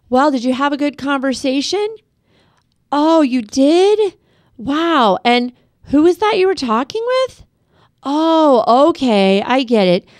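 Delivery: casual and light. Shown as a demonstration. Parent asking the child who they phoned, casually. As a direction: sound like it barely matters to you. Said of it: "Make it casual, make it unimportant".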